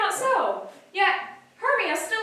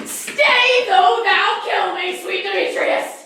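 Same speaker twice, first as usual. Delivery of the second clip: loud, pleading cry, slower on the second phrase; desperate plea; 6 dB louder, slower than usual. Acted. Helena begging Demetrius not to leave, loud desperate cry. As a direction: throw yourself after him.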